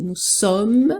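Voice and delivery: sommes closed on a held M; ending on M. Shown as a demonstration. Teacher showing where the word ends, sommes ending on M. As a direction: say sommes as "som", nothing after the M. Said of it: "Termina no M".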